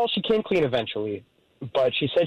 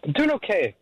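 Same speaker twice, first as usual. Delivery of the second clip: weirded out; 2 semitones higher than usual. Real, not acted. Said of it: "This is weird".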